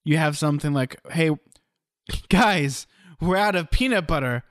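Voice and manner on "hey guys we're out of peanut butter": plain, mildly raised heads-up to the group; casual announcement. Shown as a demonstration. Showing an improv partner how delivery changes a line, casual announcement. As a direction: tell the guys casually, like minor news. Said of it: "here's an example".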